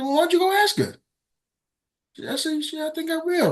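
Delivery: mock challenge. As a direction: dare her to go ask. Daring each other to ask.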